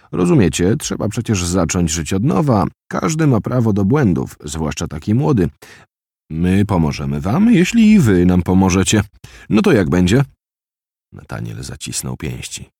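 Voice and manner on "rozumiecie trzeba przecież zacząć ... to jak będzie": higher, louder smooth persuasion; coaxing interrogator. Acted. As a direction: coax him like a false friendly official. Captors' persuasive speech recalled.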